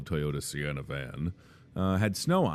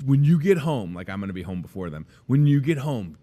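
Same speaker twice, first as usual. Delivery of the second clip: put-on kid voice; 3 semitones higher, 5 dB louder than usual. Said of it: "They were like".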